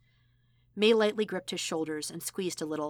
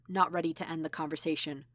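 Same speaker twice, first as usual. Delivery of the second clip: ordinary delivery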